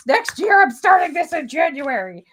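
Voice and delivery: a light, blocked-nose Kermit the Frog impression; stuffed-up Kermit. Crafter mocking YouTubers' holiday vow, as a lightly stuffed-up Kermit. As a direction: mimic Kermit with a cold, only lightly. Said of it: "just like Kermit the Frog that was stuffed up".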